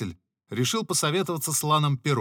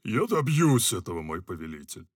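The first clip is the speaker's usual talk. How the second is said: assuring. Acted. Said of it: "заверил Филин".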